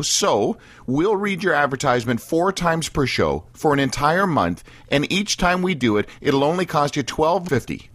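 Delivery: upbeat announcer selling a twelve fifty special; radio ad read. Acted. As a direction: pitch it straight to the listeners like a promo spot. Reads a radio ad.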